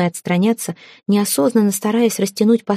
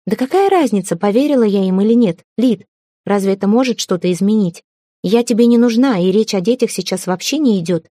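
upset outburst; 2 semitones higher than usual. Acted. Heroine bursts out in argument.

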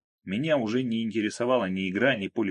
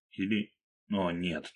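ordinary delivery

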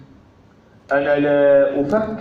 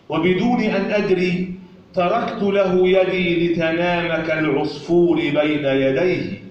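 poetry recitation. Acted. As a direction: recite the poem line by line with pauses. (إلقاء شعري متأنٍّ)

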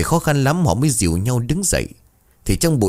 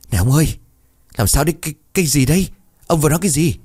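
raised pitch, anxious questions tumbling out; alarmed questioning; 7 semitones higher, much faster than usual. Acted. Wife asks her terrified husband what he said, alarmed high voice. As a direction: press him, startled and uneasy.

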